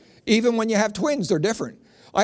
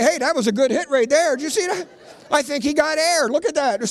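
high, excited onlooker commentary; admiring neighbors; 8 semitones higher than usual. Retold or imitated. Neighbors watching dad's hit, mock admiring commentary. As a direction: comment eagerly like impressed spectators, pitched up. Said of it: "Neighbors would comment, wouldn't they?".

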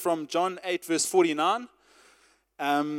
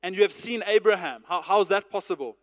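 mildly sarcastic, voice lifting at the start; a touch of scornful disbelief; almost sarcastic. Retold or imitated. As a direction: read it as a lightly mocking challenge. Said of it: "almost sarcastically, they say to him".

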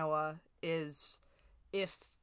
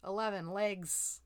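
bingo caller; 3 semitones higher, 5 dB louder than usual. Acted. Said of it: "Five billion, yeah, that was good".

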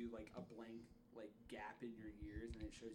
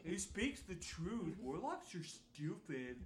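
slightly higher, slow character voice; slow, lightly acted agreement; lightly voiced bystander; 6 semitones higher, 3 dB louder, slower than usual. Bystander backs the slandering cleric, lightly voiced slow agreement. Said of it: "and he's like".

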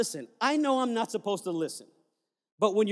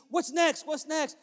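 much higher, eager and bouncing; excited; 7 semitones higher than usual. Retold or imitated. Frank jumping up and down after the plane lands, excited. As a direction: ask like a new convert who can't wait. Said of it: "He's jumping up and down".

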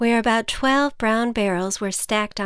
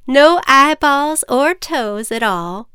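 slow, higher mother voice; gentle mother voice; 6 semitones higher, 8 dB louder, slower than usual. Acted. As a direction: kind mother, smiling. Miss Missy smiling reply.

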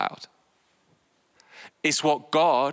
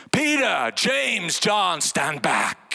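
commanding God voice; 3 semitones higher, much slower than usual. Pretend. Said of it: "One final one".

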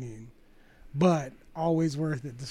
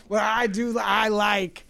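laughing; 3 semitones higher, 5 dB louder, slower than usual. Real, not acted. Laughing, shouting enthusiasm.

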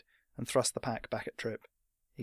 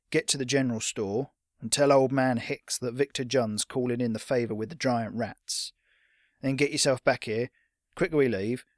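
lightly voiced old fighter giving orders; a touch of brusque command; rough-accented veteran, understated; gruff old fighter; 4 dB louder than usual. Old fighter orders the boy about.

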